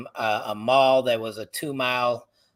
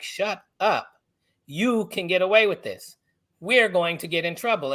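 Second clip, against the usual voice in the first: higher-pitched retold warning to a friend; urgent hushing; 5 semitones higher than usual. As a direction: shut him down, as a worried friend would. Friends hush him before police.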